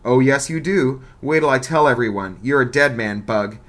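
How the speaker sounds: loud, jeering gloat; gloating threat. Acted. Bully gloating over Bug, loud jeering threat. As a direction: lean in and savour the threat.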